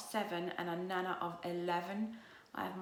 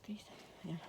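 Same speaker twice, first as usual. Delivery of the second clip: whispered with a soft laugh; whispering; 10 dB quieter than usual. Real, not acted. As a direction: hush and giggle. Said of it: "Don't know why I'm whispering".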